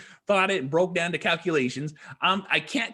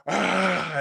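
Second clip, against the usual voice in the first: a short, louder mock roar from the throat; imitated guttural roar; 3 semitones higher, 4 dB louder than usual. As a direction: growl it out like the beast. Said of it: "this fucking guttural roar".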